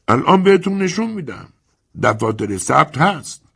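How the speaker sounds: put-on a calm, sly old lender talking down to the young man; old moneylender Chiarenza.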